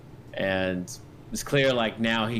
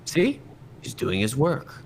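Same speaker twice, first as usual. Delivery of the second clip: jumps higher and louder on See; pleased see; 6 semitones higher, 3 dB louder than usual. Acted. Officer points out the screams to the players, pleased. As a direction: show it off smugly. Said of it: "He goes".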